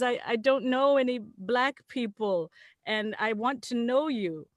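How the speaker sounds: earnest tipsy confession, mimicked; imitated drunk man. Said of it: "he's drunk off his ass".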